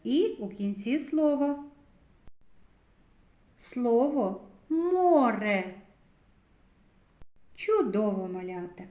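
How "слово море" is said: slow clear reading. Shown as a demonstration. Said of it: "У слові море звук О стоїть у середині".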